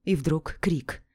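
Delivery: plain reading voice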